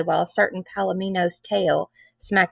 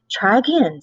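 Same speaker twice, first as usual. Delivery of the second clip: curt order, a little louder; barked order; 2 semitones higher, 4 dB louder than usual. Acted. Nun barking at Bernice after she falls off. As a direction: bark the order like a drill sergeant. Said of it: "Sister Mary Frances barked".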